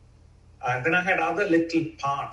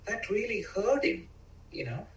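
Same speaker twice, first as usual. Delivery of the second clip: loving parent; 4 semitones higher than usual. Retold or imitated. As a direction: tell him kindly how it hurt. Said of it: "the inner loving parent can come and say".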